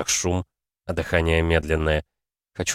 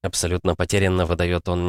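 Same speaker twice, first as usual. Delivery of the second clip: ordinary delivery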